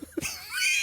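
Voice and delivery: high burst of laughter; squealing laugh; shrieking laugh. Real, not acted. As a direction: cackle at the joke. Group laughs at dumb pick.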